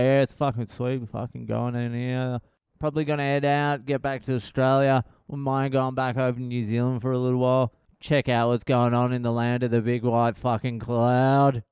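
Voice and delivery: words run lazily together in Aussie slang; hurried, slurred mumble-through, imitating yourself; slurring. Relaxed chat with someone who followed everything, slurring. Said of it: "I was basically slurring".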